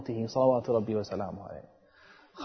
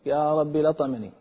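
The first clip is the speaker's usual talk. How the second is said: tearful plea; 2 semitones higher than usual. Retold or imitated. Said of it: "يصلي ويبكي ويقول".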